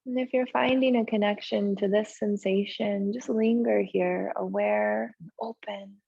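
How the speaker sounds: unhurried yoga relaxation voice with long pauses; slow-paced, settled breathing guidance; guided meditation. Real, not acted. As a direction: ease them gently into stillness, leaving space between phrases. Leads meditation in the pose.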